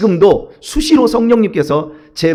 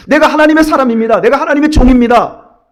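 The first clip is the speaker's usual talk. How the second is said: ringing, louder proclamation, pitch raised; emphatic declaration; 8 semitones higher, 5 dB louder than usual. Acted. Preacher declares himself God's servant, loud and raised. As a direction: declare it boldly like a vow.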